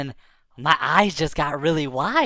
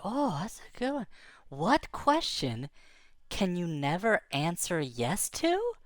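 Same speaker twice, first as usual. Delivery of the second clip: quiet pondering; 9 dB quieter, slower than usual. Retold or imitated.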